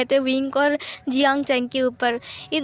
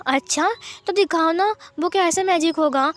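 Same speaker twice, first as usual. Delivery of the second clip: put-on higher, insistent little kid refusing; a stubborn six-year-old who won't drink; whiny child; 4 semitones higher than usual. Six-year-old refusing his milk, high and whiny.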